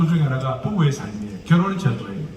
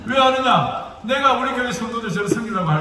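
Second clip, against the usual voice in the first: ordinary talk, nothing marked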